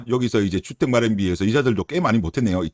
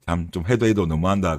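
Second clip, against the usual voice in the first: ordinary delivery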